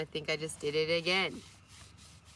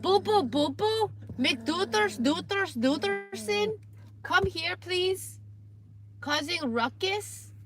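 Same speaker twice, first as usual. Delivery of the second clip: much higher, sing-song pet voice; squeaky doggy talk, much higher; 9 semitones higher, slower than usual. Real, not acted. Baby talk to the dog.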